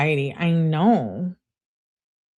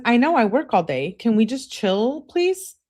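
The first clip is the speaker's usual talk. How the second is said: higher-pitched wheedling plea, rising on "please"; pleading; 5 semitones higher than usual. Retold or imitated. Girlfriend begging Dom to chill, pleading. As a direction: read it as begging, pitch climbing to the last word. Reading out a pleading text exchange.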